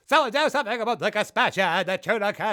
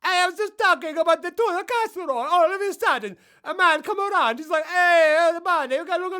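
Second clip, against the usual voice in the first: much higher, loud comic character voice; high silly voice; 10 semitones higher, 5 dB louder than usual. Acted. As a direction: squeak it out like a cartoon hustler.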